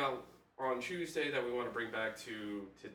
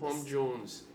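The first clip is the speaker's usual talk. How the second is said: A singer's name in a slightly put-on Welsh voice; lightly Welsh, name given on its own; attempted Welsh accent; 3 semitones higher than usual. Listing famous Welshmen, a hint of Welsh accent. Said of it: "Why did you say it like that?".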